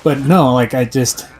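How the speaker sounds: talking out of the side of the mouth; out of mouth corner. Real, not acted. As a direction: speak from one corner of the mouth. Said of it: "Just gotta talk out of the side of my mouth now".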